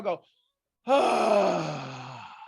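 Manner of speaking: loud sighing ah on the out-breath; demonstrating an exhale sigh; long exhale sigh. Shown as a demonstration. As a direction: let the breath out with a big ah. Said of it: "Big breath in, and on the exhale".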